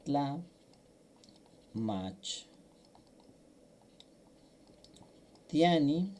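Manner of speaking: Tla, mach, tiani broken into separate syllables with pauses between. Shown as a demonstration. Teacher breaks the word for students to repeat, syllable by syllable. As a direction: spell out tlamachtiani one syllable at a time: Tla, mach, tiani. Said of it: "vamos a repetir".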